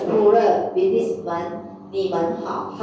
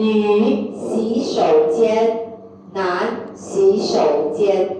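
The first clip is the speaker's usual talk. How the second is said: slow, drawn-out syllables; stretched-out teaching pronunciation; slow teacher model; much slower than usual. Shown as a demonstration. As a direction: say each word slowly for learners. Teacher models words for learners.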